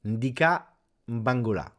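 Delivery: "Ndika" and "mbangula" loud, each opening on a hum; practised pronunciation. Shown as a demonstration. Streamer showing he has it, "Ndika mbangula" said loudly and deliberately. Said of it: "Yeah, like this".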